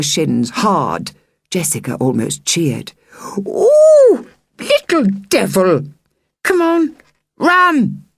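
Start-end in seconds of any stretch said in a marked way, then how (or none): 3.4-8.0 very high yelp then urgent high call; yelp, then hurry them off; startled cry. Acted. Kicked woman yelps and the girl urges her sister to run. Kick and flight.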